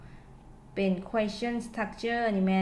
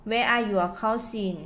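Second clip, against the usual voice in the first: slow model sentence; much slower than usual. Shown as a demonstration. Teacher to students giving an example, very slow. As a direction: read it out slowly for learners to copy. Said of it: "ตัวอย่าง".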